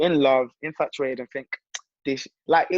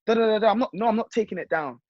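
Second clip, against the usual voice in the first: mock girlfriend rant, pitched well above own voice; high-pitched retold complaint trailing into nonsense syllables; imitated indignant girlfriend; 7 semitones higher than usual. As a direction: raise the pitch and rattle on like an accusing partner. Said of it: "they won't see her self-destructive".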